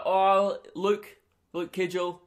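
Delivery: a rough attempt at a British accent; badly faked British doctor calling out a name; shitty British accent. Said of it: "that's a shitty British ac".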